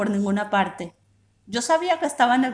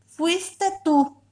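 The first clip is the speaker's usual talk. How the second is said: accusing shout; 7 semitones higher than usual. A narrator's reading. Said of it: "ella me gritó".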